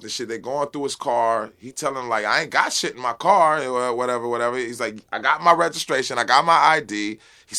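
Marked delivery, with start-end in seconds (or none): 2.2-3.6 louder, higher insistent quote; retold protest. Handcuffed man to police searching his car, retold protest. 5.1-7.2 louder, insistent listing; retold protest. Handcuffed man telling police he has papers, retold protest.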